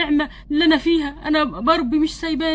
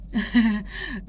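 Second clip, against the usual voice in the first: low, soft laugh; weak chuckle; 5 semitones lower, 4 dB quieter than usual. Acted. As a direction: chuckle weakly, as if it takes effort. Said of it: "ضحكتني وانا مش قادر اضحك". (ضحكة خفيفة ضعيفة)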